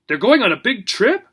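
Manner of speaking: high distressed wail; anguished old dog. Acted. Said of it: "he wailed".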